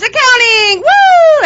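high, loud fake cheer; mock enthusiasm. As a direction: sell boring news as a thrill. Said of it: "Everybody sleeping?".

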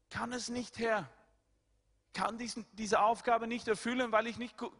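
high, whining plea to the Lord; pleading Moses. Acted. Moses begging the Lord to spare him, high whine.

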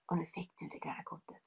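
tyst viskning utan röst; viskande. Real, not acted. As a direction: viska fram det nästan hemligt. Says it to the mother softly. (berättar viskande för mamman)

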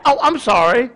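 flippant apology. Retold or imitated. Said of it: "Just like that".

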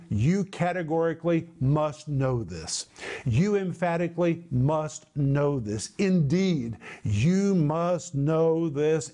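each "must know this" set apart, slowing at the end; firm, building insistence on "must know this"; categorical emphasis. Acted. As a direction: drive home "must know this", ending slow and deliberate. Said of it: "something that is emphatic".

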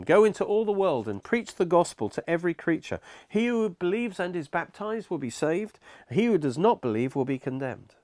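mildly proclaiming Bible-reading voice; scripture reading. Acted. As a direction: read the verse out as a commission. Reads scripture aloud to listeners.

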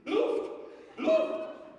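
high, loud, gasping cry for air; panicked breathless plea; desperate gasp for air. Acted. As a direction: choke out the word like a man just pulled from the water. Drowning man gasps for air.

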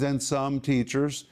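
slow emphasis on "some"; deliberate, weighted "some"; emphatic "some". Shown as a demonstration. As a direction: lean on "some" as a categorical statement. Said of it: "as an emphatic, categorical statement".

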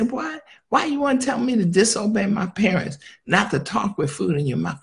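high, fast incredulous listener voice; mock disbelief. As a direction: play the shocked listener objecting. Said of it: "You say".

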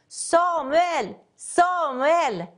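calling out Samuel's name. Acted. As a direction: call his name across the dark room.

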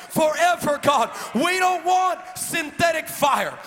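preacher praying over the church, building to shouts; fervent prayer. Real, not acted. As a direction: lead the prayer, rising into declarations. Leads a prayer.

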